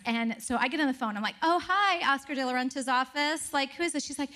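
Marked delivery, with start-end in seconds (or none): 1.4-4.3 high, mock-posh foreign assistant voice; badly faked European accent, lightly done; hammy foreign receptionist; botched accent. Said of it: "I'm doing, botching this accent".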